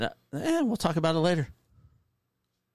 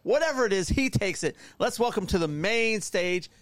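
ringmaster. Pretend. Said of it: "He perked up".

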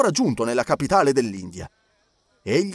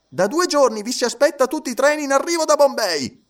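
judge Obadiah; 11 semitones higher, 4 dB louder than usual. A narrator's reading. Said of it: "disse il giudice Obadiah".

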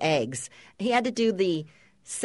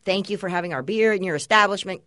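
mock host greeting; faster than usual. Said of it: "I'm greeting and meeting and helloing".

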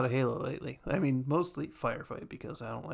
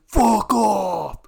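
louder, exasperated fuck off; yelled fuck off; 7 semitones higher, 10 dB louder than usual. Retold or imitated. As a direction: yell it at the screen. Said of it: "everyone's like".

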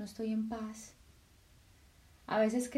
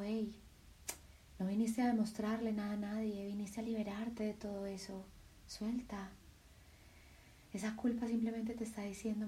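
softer, tender voice of the heart; the heart speaking; 7 dB quieter than usual. Acted. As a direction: speak as a loving heart comforting. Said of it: "tu corazón simplemente te dice". (el corazón habla, suave y tierno)

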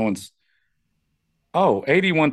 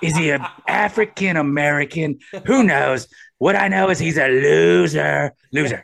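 lightly imitated politician dishing an insult; mock verdict in a light impression; Trump; 3 semitones higher than usual. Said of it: "Ah, it's Trump".

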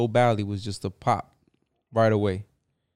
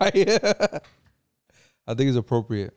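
slow, drawn-out words through a laugh; can't keep a straight face; laughing while talking; much slower than usual. Real, not acted. Laughing as he defends the rapper to his co-host.

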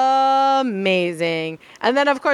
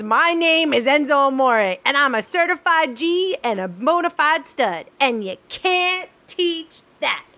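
lightly voiced wrestler promo; Enzo Amore impression; 4 semitones higher than usual. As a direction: hype it up like a wrestler. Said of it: "one of my personal favorites is".

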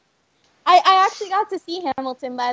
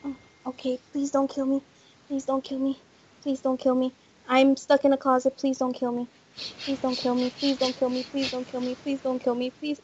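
quiet, lower frightened pleading; terrified horror victim; 5 semitones lower, 5 dB quieter than usual. Real, not acted. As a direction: beg softly while hiding. Hiding from killer in closet.

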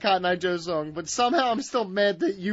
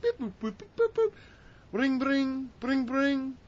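phone beeps imitated; 4 semitones higher, 4 dB quieter than usual. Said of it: "I called up".

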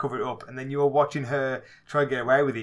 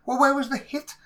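high, louder incredulous outburst; exasperated mock rant; 11 semitones higher, 4 dB louder than usual. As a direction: act out his own disbelief at the screen. Mock reaction to bad fight scene.

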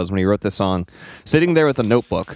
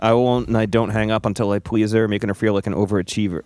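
deadpan reading. Pretend. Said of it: "read them in your deadpan voice".

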